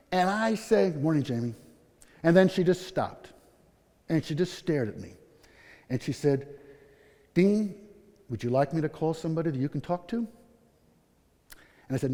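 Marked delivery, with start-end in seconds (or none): 0.9-1.6 low, soft return greeting; subdued reply. Retold or imitated. His subdued reply to the nurse. 7.3-10.2 soft, careful offer of help; hushed, caring question; gentle concern. Retold or imitated. Concerned nurse offers help, acted.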